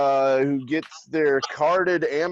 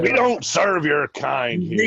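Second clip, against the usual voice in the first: cantina bartender; 3 semitones higher, slower than usual. Acted. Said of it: "movie quote against robots".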